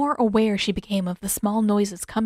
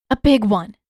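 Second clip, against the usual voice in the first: relieved; 8 dB louder than usual. A narrator's reading.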